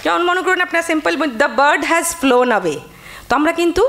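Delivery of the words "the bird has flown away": slow line with weight on "bird" and "flown"; stress on BIRD, FLOWN. Shown as a demonstration. Teacher demonstrating meter, stressing "bird" and "flown". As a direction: lean on "bird" and "flown", lighter on the rest. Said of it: "একটু stress দিয়ে বললাম".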